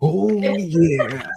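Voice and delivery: loud, very high, long stretched-out yeah. Welcoming back after a commercial break: Macho Man voice. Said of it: "I hit you with the Macho Man voice".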